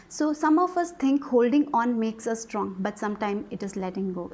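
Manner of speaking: slow, measured reading of the card text. Acted. Tarot reader reads the card's message to viewers, slow and measured. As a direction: read it out slowly like an oracle message.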